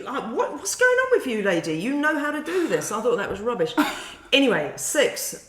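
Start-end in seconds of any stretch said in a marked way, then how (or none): 0.3-2.9 mock bad Cockney. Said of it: "sounds a little bit like Dick Van Dyke".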